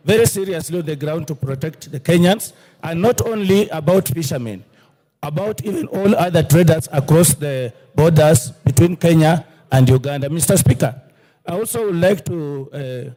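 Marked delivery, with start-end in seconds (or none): 1.9-11.0 louder, forceful plea; raised voice. Real, not acted. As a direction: press the point loudly. MP presses point in debate.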